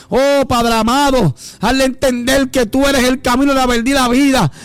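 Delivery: insistent prayer rising to a peak; building fervent prayer. Real, not acted. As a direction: chant the plea rhythmically, mounting in fervor.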